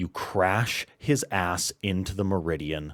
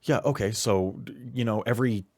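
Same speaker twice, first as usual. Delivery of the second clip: irate handler; 4 semitones higher, 5 dB louder, faster than usual. Acted. GM voices irate handler on phone.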